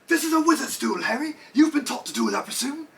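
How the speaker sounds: high, theatrical sneering villain; mocking villain voice. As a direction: sneer it like a dark lord. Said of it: "He was like".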